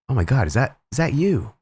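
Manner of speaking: rising, disbelieving gasp of recognition; high-pitched retold surprise; surprised recognition. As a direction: act out Dave suddenly realizing who it is. Dave recognizing streamer in cosplay.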